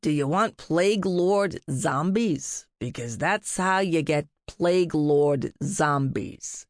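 slow, huffy cat voice; dry, exasperated huff; lightly voiced grumpy cat. A narrator's reading. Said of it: "Rumpus huffed".

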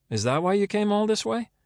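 incredulous, high-pitched question; sceptical challenge. Acted. Kate questioning Landon's reason for coming all this way, sceptically. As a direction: push the pitch up in disbelief.

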